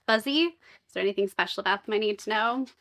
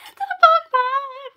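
high breathy hush, slow; awed whisper; 14 semitones higher, 6 dB louder, slower than usual. Real, not acted. Marveling at the unboxed item, awed whisper. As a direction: hush it like a treasure.

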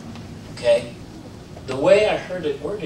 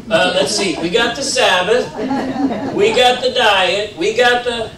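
laughing through the list, louder and higher; 7 semitones higher, 6 dB louder than usual. Real, not acted. Answering a stranger about church, laughing. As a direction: chuckle while counting off beliefs. Laughing while listing beliefs.

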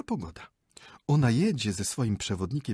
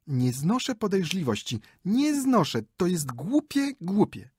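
higher, louder huffy wife; petulant outburst; 9 semitones higher, 5 dB louder than usual. Acted. Wife protests against her husband's suspicion, high and huffy. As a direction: stamp each word, offended.

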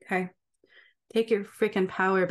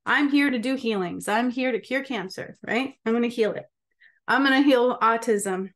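higher, eager and bright-eyed; eager self-quote; 3 semitones higher than usual. Retold or imitated. Young healer announcing to God her plan, in a higher eager voice. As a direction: play your naive younger self, sure she'll cure cancer. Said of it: "That's what I thought".

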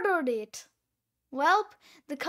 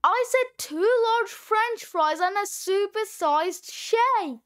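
raised, insistent repeat; louder; 3 semitones higher than usual. Acted. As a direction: say it again, louder and impatient.

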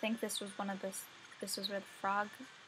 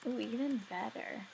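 slow pleased coo. Real, not acted. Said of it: "That made me so happy".

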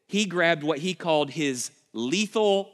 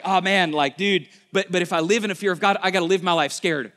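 objecting listener; 2 semitones higher, 5 dB louder, faster than usual. Retold or imitated. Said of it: "you're like".

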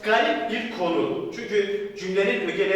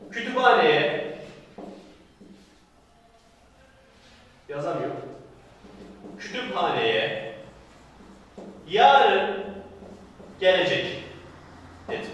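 slow dictation. Shown as a demonstration. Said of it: "dictating example slowly with pauses".

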